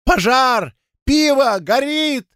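very high alarm cries; shrill, panicky calls; high wailing. A narrator's reading. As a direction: wail each word high and separately. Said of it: "Его вопли, перекрывавшие лязг".

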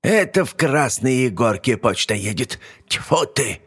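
put-on high, spitting old hag; annoyed old witch. Yaga's voice.

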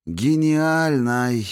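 the word breaks into a sob; breaking cry. A narrator's reading. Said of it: "Голос Дарио сорвался".

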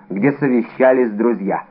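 plain reading voice

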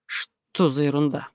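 slow, mildly baffled aside; puzzled surprise. A narrator's reading. Sergeant hearing absurd complaint, baffled. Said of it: "удивился сержант Штраус".

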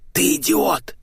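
hissed whispered scolding, slow at the end; angry hiss. Acted. Boss hissing at her assistant over the phone, angry. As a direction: hiss the insult under your breath. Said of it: "зашипела хозяйка".

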